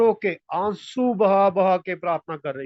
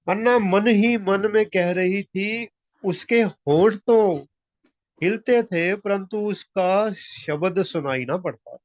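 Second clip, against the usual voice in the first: slow, deliberate verse reading; scripture reading; 2 semitones higher, slower than usual. A narrator's reading. Preacher reading of Hannah's silent prayer, slow scripture reading. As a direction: read the verse slowly, stretching the phrases.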